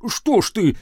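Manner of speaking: a touch of hurt, timid pique; pain and timid annoyance. A narrator's reading. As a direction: wince and complain meekly. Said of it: "боль, и досада, и робость". (с болью, досадой и робостью)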